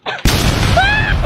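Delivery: very high, short scream; startled scream. Acted. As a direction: let out a high comic shriek. Scream in grenade skit. (matinis na tili)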